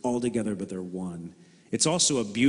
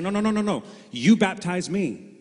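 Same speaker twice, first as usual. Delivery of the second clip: much higher, louder frantic refusal; panicked protest; 9 semitones higher, 5 dB louder than usual. Retold or imitated. John the Baptist refusing to baptize Jesus, hammed-up panic. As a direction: plead in a flustered rush. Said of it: "was freaking out".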